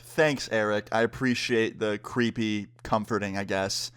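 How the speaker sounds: low, reluctant, half-hearted thanks; uneasy thanks. Retold or imitated. Thanking a waiter whose comforting feels creepy, uneasy and low. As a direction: thank him while creeped out. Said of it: "that's definitely how I felt".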